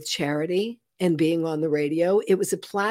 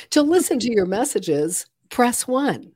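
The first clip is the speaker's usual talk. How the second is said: automated phone voice; 4 semitones higher than usual. Shown as a demonstration. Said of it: "the very first automated voice".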